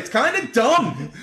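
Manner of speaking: slow mocking "It's kinda dumb" with "dumb" leaned on; lazy, teasing stress on "dumb". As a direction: drag it out and hit "dumb". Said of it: "he would cut him off and say".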